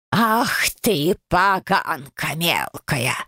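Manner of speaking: slow, wheezy scolding of a brat; a nasty old ghost hissing at the girl; wheezing old crone. Acted. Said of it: "просипела прабабушка". (прабабка сипло бранит правнучку)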